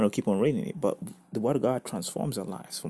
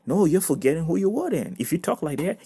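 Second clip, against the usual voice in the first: raised pitch and volume, correcting; emphatic correction; 7 semitones higher, 6 dB louder than usual. Acted. Preacher correcting someone who complains about rent, emphatic correction. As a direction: cut in loudly to set them straight.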